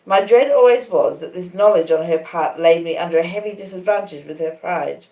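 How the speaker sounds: ordinary delivery, nothing marked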